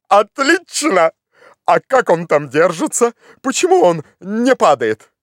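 high, stretched exclamation into eager questions; exult, then question the climber keenly; elated approval. Acted. Master thrilled by the skull.

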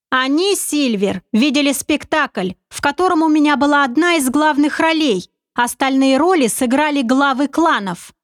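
a hint of a sly confident schemer; sly commander. Narrator voices commander Oleg.

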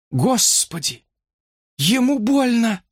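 high-pitched, horrified exclamation; alarmed. Acted. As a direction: rise in alarm for the patient. Brook horrified at patient's pain. (в ужасе, на высоких тонах)

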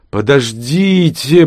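put-on slow, wheezing old man's cry; cracked old man's voice. A narrator's reading. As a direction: rasp it like a worn-out old man. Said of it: "прохрипел кто-то надтреснутым стариковским голосом". (надтреснутый стариковский хрип)

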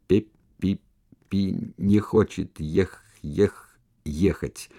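slow stammer on ех-; stutterer. Acted. Stutterer stammers that Pepe won't go. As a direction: drag and repeat the syllable. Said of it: "самый неподдельный заика".

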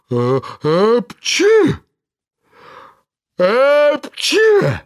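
big, slow, cracking sneezes; loud sneezes. A narrator's reading. Karabas sneezes with a crack, stamping. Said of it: "с треском чихал".

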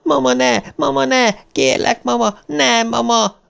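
put-on high, desperate child's scream; screaming in terror. A narrator's reading. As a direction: shriek it like a terrified boy. Child screams at monster mother. (rémült gyerek sikoltozása)

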